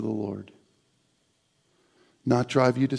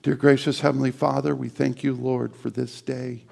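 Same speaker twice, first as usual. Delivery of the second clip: closing prayer; 4 dB louder than usual. Acted.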